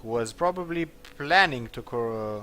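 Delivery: a touch of loud villager storytelling; accusing villager. Acted. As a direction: read out the accusation loudly, with stumbles. Voices villager accusing the Taken.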